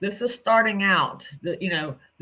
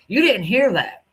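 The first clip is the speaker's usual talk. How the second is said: loud, high mocking imitation of Ryan yelling; 4 semitones higher, 5 dB louder than usual. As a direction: mimic his angry denial, loud and high. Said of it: "you were like".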